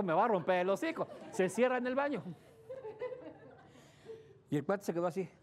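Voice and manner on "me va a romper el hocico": mock fear. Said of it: "porque dijo".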